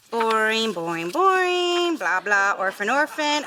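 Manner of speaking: singsong skim through dull pages; bored skimming. Acted. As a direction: drone and stretch it as you skip ahead. Skimming aloud through a dull book.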